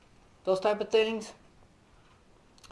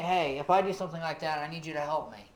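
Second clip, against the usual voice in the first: softer, humble asking; gentle request; 4 semitones lower, 5 dB quieter than usual. Retold or imitated. Preacher modelling a gentle request to a swearing friend, soft. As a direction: ask for help as if confiding. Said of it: "that's a really gentle way to do it".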